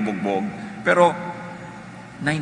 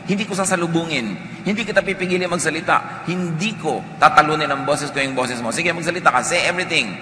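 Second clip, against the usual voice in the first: a hint of patient giving way, pitched higher; calm yielding listener; 5 semitones higher than usual. Preacher voicing the one who lets an angry person vent, higher and yielding. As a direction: let them talk it all out, gently. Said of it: "Sige, sabi mo".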